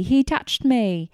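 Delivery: high, loud yell stressing he, "HE touched me!"; retold yell. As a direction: shriek it slowly, punching "he". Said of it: "Michael is yelling".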